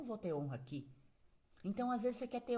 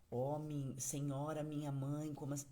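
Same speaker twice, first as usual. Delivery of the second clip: mock stiff formality; 4 semitones lower, slower than usual. Shown as a demonstration. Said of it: "Você não fala assim".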